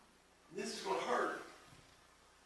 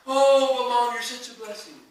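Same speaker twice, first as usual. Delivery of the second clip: put-on grateful child; 6 semitones higher, 12 dB louder than usual. Acting out a child thanking mom.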